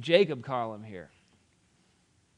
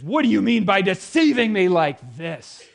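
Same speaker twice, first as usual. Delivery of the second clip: loud, high furious accusation; angry demand; 8 semitones higher, 14 dB louder than usual. Acted. Laban confronting Jacob over the deception, shouting. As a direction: hurl the accusation at him. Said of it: "Laban demanded".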